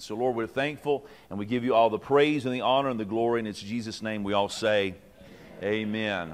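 earnest closing prayer. Acted. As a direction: pray it over the leaders, measured and sincere. Opening prayer before teaching.

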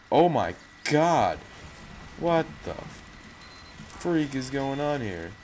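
high, slow alarmed exclaim; freaking out under attack; panicking gamer. Real, not acted. Overwhelmed by enemies.

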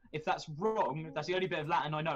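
fast, loud mock threat. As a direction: bluster a playful threat.

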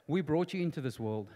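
hint of a father's reprimand, held down low; Bill Cosby. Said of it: "I do my famous Bill Cosby saying".

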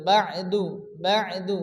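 বা'দু with the ayn tied to ba; joined ayn. Shown as a demonstration. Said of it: "বার সঙ্গে আইন সংযুক্ত হবে".

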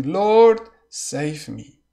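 a desperate shout for help; crying out. Acted. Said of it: "He cried, saying".

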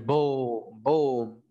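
two long booms; drawn-out sound-effect "bom"; imitated bomb blasts. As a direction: boom like a bomb going off. Communists bomb again, imitated.

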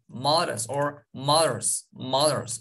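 mothers kelimesi yavaşça, th ve sondaki z sesi belirgin; mothers: th'yi dişlerle, sonu z sesiyle; yavaş, tane tane. Shown as a demonstration. (öğretmen gibi yavaş mothers)

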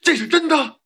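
very high, loud disbelief; stunned. Acted. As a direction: ask it breathless with shock. Stunned by the daughter news. (难以置信地高声发问)

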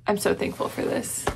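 whispered thanks. Real, not acted. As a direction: whisper it like a heartfelt secret. Heartfelt thanks.

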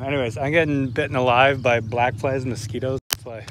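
breathing heavily between words; panting a little while talking. Real, not acted. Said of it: "I'm breathing heavily".

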